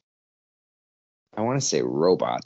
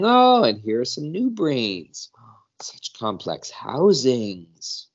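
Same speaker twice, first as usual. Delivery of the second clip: curious alien; 5 semitones higher, 4 dB louder, slower than usual. Acted. Alien admires the new brains.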